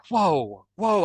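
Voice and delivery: re-enacted dazed amazement; drawn-out, swooping whoa, as if overwhelmed; retold stunned whoa. Waking from an intense dream, retold stunned whoa. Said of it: "only thing I could say was just like".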